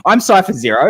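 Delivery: a hammed-up Russian accent on "I'm Cypher Zero", like a cheap Eastern European villain; mock Russian accent, lightly done; bad Russian accent like an eighties movie villain. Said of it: "that sounds like some really bad, like, Eastern European villain".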